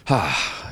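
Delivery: "hah" of breath let out; sharp nervous exhale. Shown as a demonstration. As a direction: brace yourself with one big exhale. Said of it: "it's all breathing".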